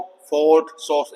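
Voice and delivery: "फोर्ट, सोर्स" with short O. Shown as a demonstration. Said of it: "short ओ".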